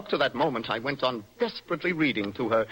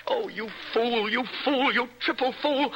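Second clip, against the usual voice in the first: building scorn; 7 semitones higher than usual. Acted. Poet mocking rival, escalating.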